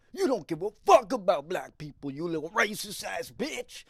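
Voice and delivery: loud, high angry yelling; angry man yelling at a stranger; furious yell. Retold or imitated. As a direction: scream the accusation right at him. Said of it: "And he goes".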